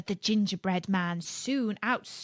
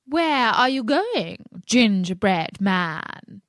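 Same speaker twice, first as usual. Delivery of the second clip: sharp voice; 6 dB louder, slower than usual. A narrator's reading. Fox lying by the fence calling sharply. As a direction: call out sharply without getting up. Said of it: "called out in a sharp voice".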